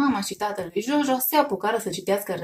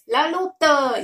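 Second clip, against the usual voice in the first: higher and louder, bursting with courage; brave battle cry; 6 semitones higher, 5 dB louder, much slower than usual. A narrator's reading. Jojo joins the fight with a bold, higher battle cry. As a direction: charge in with a child's war shout. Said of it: "izbucni Jojo plin de curaj".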